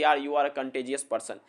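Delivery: slow, friendly compliment to a friend; teacher models a compliment to a friend, slow and friendly; example line, said slowly. Shown as a demonstration. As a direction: tell a friend this slowly and fondly. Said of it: "आप किसी को भी कह सकते हैं".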